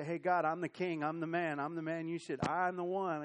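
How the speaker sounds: hammed-up bragging king; mock boastful David. Preacher mocks David bragging to God, loud and cocky.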